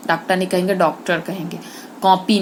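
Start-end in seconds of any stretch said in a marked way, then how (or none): 2.0-2.4 कॉपी said with a rounded open o, not कापी; correct pronunciation. Shown as a demonstration. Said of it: "न कि कापी".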